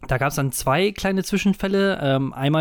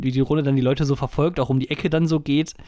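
ordinary talk

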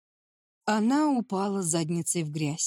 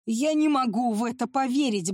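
ordinary delivery, nothing marked

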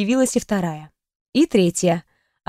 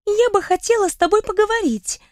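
неуклюже; 10 semitones higher than usual. Acted. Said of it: "неуклюже начала подруга".

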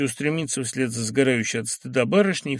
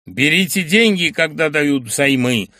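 louder, slow barked order; gruff bark; 4 semitones higher, 8 dB louder than usual. Acted. Professor ordering the girl to take money, barked. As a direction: bark it at her. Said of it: "рявкнул Филипп Филиппович".

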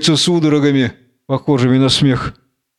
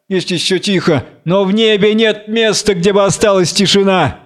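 higher, worried urging; urgent Goliath; 5 semitones higher than usual. Acted. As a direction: warn a friend of the coming storm. Goliath urges haste. (встревоженный Голиал, повыше)

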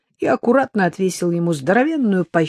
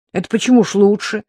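упрямо; 5 semitones higher, 4 dB louder, faster than usual. Acted. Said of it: "заортачился Серёжка".

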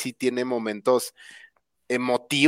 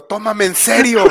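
mild, raised-pitch mock yell; mock shout; 5 semitones higher than usual. The trailer grabbing him by the neck, mildly shouted. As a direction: plead it like a hammed-up demand. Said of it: "me agarró del cuello y me gritó".

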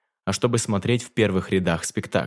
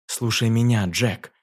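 echoing Titania; slower than usual. Acted. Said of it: "вторила Титания".

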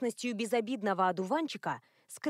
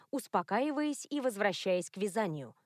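plain reading voice

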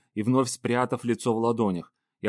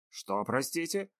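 polite tone; 3 semitones higher, 7 dB quieter, slower than usual. Acted. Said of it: "всё тот же вежливый тон".

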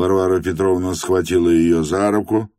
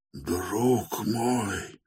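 much softer, mumbled in horror; terrified mumble; 3 semitones higher, 10 dB quieter than usual. Acted. Stepan Trofimovich, horrified, mumbles to the accusing Varvara Petrovna. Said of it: "прошамкал было он в ужасе".

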